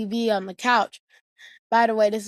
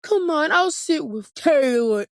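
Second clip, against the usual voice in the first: sweet mom; 6 semitones higher than usual. Retold or imitated. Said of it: "And then Mom says".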